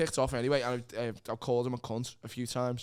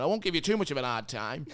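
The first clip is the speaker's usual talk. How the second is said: a light mock of the boss; a faint, laughing take on him; a hint of the smug manager; imitating the boss. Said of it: "That's how he said".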